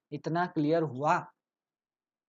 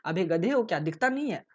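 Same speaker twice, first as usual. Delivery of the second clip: rude scolding; 3 dB louder than usual. Shown as a demonstration. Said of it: "ऐसा".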